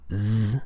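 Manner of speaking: "Z" buzzed with vibration in the throat; voiced Z sound. Shown as a demonstration. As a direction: hold "Z" as a voiced zzz. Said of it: "are voiced".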